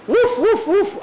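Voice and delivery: very high, loud little woofs; pretend dog barking. A narrator's reading. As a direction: yip like a kid playing puppy.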